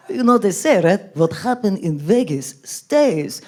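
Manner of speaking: put-on slow, halting Arab-accented come-on; mock Arab accent. Arab man hitting on her, slow mock Arab accent. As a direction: drag out the slogan in an Arab accent. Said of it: "hit on by an Arab dude".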